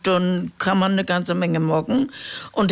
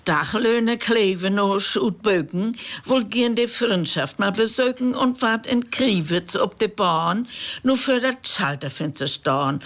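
poem recital; 2 semitones higher than usual. Acted. Reading Reuter's poem to radio listeners, measured recital. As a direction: recite it like a village storyteller.

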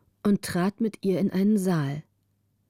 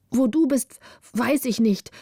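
put-on a bright, sleepy girl answering; young girl's voice; 4 semitones higher than usual. Margareta answers Gritta in a young girl's voice.

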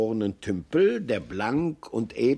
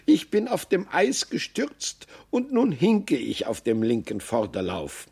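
complaining doe; 2 semitones higher than usual. Acted. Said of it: "seufzte das Reh".

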